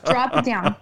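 amused, half-laughed repeat; laughing as she quotes the producer; laughing echo. Retold or imitated.

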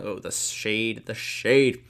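slow drawn-out mock gasp at the shade; mock aside. Real, not acted. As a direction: savour the insult dramatically. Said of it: "reader's comic aside".

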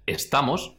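"estamos" slowly, with a clean T; careful "estamos", crisp unaspirated T; standard clear T. Shown as a demonstration. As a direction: make the T in "estamos" sound like a plain T. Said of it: "donde la T suena a T".

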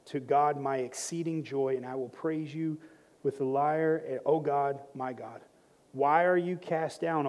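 low, soft psalm reading; scripture reading. Acted. Pastor reads the psalm to the church, quiet scripture reading. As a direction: read it quietly and reverently, letting phrases settle.

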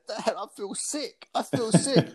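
high-pitched mock plea to dad; retold queasy plea. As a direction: act out a nervous kid begging off. Retelling his plea to his dad.

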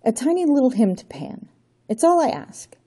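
Johnny begging the Count for time; pleading. Acted. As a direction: beg him to stop. Johnny pleads for last request.

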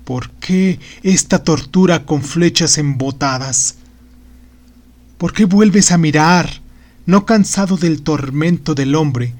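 a lightly voiced trembling old magician in torment. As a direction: plead and rail at a cruel god. The magician's lament.

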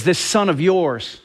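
slow, bitter and resentful; bitter older brother sneering; seething resentment. Retold or imitated. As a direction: spit it out with contempt for the brother. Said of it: "You just hear the seething resentment in his voice?".

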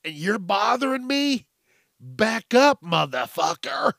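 mock angry telling-off. Drinker tells off a parent at the brewery, mock angry. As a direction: act out warning off an intruder.

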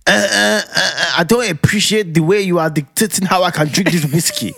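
hammed-up indignant wife telling him off; husband mimicking his wife's sassy anger; mock angry wife. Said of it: "That's how she sounds, 'cause when Blessy gets angry, she gets a bit fresh".

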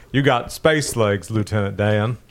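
slow southern movie drawl; lightly voiced slow southern accent. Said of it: "Doing the voice made me go".

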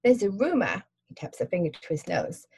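friendly London cabbie asking; Cockney cabbie. Acted. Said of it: "Cockney accent".

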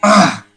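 imitated exasperated groan; short acted groan of irritation. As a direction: groan as if fed up with them. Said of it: "he was groaning".

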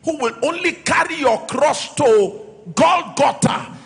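firm sermon delivery, leaning on key names; emphatic preaching. Real, not acted. Pastor warning church about temporary helpers, preaching emphatically. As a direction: build towards a question for the congregation.

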